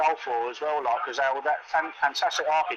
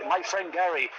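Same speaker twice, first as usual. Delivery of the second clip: a deliberately bad Polish accent, lightly put on; mock Polish lorry driver, hammed-up Polish accent; playful fake Polish accent; terrible Polish accent. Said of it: "I'll do a terrible Polish accent".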